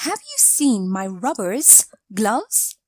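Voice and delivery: plural "rubbers" said before "gloves", asked as a question; wrong form read out. Shown as a demonstration. Teacher reading the wrong sentence for students to correct, plain question. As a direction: read the faulty version "rubbers, gloves" as the mistake to fix. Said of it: "Provide the correct form of the following sentence".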